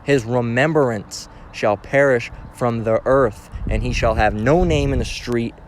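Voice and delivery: slow, emphatic Bible reading; weighty, drawn-out verse reading; scripture reading. Acted. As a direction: read the verse out slowly and deliberately. Reads scripture aloud.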